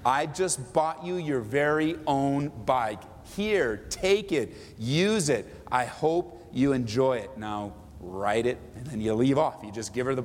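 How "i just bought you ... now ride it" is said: slow, gentle gift-giving voice; generous giver. Shown as a demonstration. Pastor voicing a giver presenting Mary's new bike, slow and kind. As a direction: hand it over slowly and kindly. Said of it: "might sound like this".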